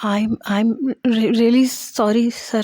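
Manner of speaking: tearful, stammered apology; trembling voice. A narrator's reading. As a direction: falter slowly through an apology, near tears. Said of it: "میری آواز کانپ رہی تھی". (کانپتی ہوئی آواز)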